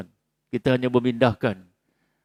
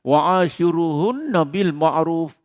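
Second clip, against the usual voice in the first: slow recitation; 3 semitones higher, slower than usual. Shown as a demonstration. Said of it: "tu perintah Allah Ta'ala".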